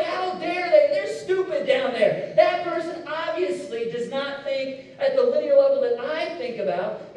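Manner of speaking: high, loud, slow huffy outrage; hammed-up self-righteous scorn; mock indignation. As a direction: play the outraged neighbor, sneering. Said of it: "You're like".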